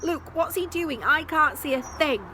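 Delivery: put-on high, loud flustered old man; Malcolm flustered. Malcolm blinded by beard asking Luke, high loud. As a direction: fret blindly through the beard. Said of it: "Malcolm was trying".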